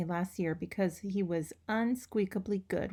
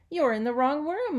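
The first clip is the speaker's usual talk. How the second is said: high, loud squeaky cry; high squeak; 6 semitones higher, 6 dB louder than usual. A narrator's reading. Hamster squeaks at students in the wrong room, high and loud. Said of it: "I squeaked".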